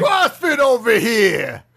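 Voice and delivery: mock New Jersey accent. Mock Jersey CrossFit show-off calling out.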